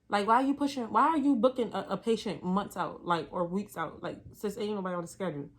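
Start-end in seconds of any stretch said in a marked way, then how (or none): 0.1-4.0 indignant. Real, not acted. Indignant rhetorical question.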